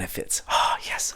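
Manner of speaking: whispered oh, yes in relief; relieved whisper. Retold or imitated. Builder whispering as the motherboard fits, relieved. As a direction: breathe it out in quiet triumph. Parts finally fit.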